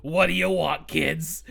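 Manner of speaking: lightly voiced weary streetwise horse; a hint of a tired, world-weary dame; jaded hooker with heart of gold. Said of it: "hooker with a heart of gold".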